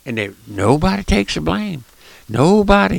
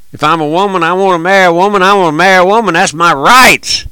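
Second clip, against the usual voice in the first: mocking protesters; 4 semitones higher, 4 dB louder than usual. Mocking marchers' demands.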